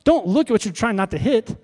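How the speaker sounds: upset instructor. Retold or imitated. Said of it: "he was kind of upset with me".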